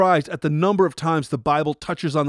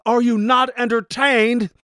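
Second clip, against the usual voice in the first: slow, high shout to the crowd; slow shouted arena challenge; Maximus yell; 5 semitones higher than usual. Retold or imitated. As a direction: shout it like a gladiator. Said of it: "When Maximus yells out".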